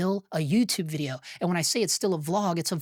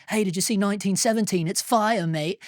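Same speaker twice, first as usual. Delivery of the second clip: bad English accent. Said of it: "I know that's a horrible English impersonation".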